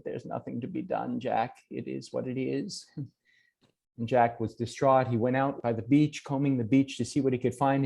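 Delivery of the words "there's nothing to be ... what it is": soft, slow acceptance; a mother accepting her death before her son, softly; resigned frail mother. Acted. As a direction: let it go gently, nothing left to fight.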